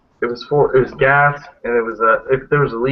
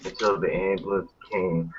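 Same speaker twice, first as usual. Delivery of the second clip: creepy guy voice. Retold or imitated. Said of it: "this creepy guy going like this".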